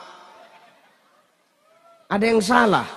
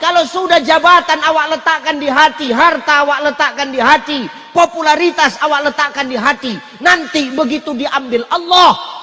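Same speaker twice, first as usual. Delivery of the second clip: raised preaching voice; 4 semitones higher, 4 dB louder than usual. Real, not acted. Preacher raising voice to warn.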